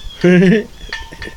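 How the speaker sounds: brief high little laugh; short chuckle. Real, not acted. Streamer amused mid-chat, short chuckle. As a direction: let out a small chuckle.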